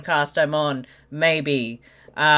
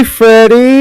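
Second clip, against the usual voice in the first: calling out; 4 semitones higher, 10 dB louder than usual. Real, not acted. Calling out to someone.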